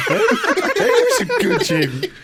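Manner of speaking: put-on very high, slow, laughing baby talk; squeaky dog praise. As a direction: coo it like praising a puppy.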